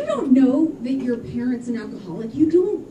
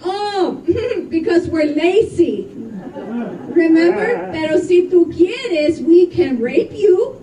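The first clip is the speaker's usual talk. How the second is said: workers' sly reply; 4 semitones higher, 5 dB louder, slower than usual. Retold or imitated. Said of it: "And they're like".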